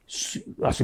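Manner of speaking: whispered, conspiratorial aside; gossipy whisper. Shown as a demonstration. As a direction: hush it like sharing a juicy secret. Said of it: "con mucho chisme". (susurro de chisme)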